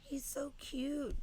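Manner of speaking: high, slow whispered gush; overwhelmed by cuteness. Real, not acted. Cooing over cute dog.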